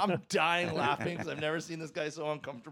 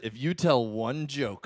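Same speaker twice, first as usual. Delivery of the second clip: slow, weighted "If you tell one joke"; measured mock threat, each word of "one joke" spaced out; quoted stern warning; 3 semitones lower, much slower than usual. Friend recalling the customs lady's line, slow mock warning. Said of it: "I remember the line you said".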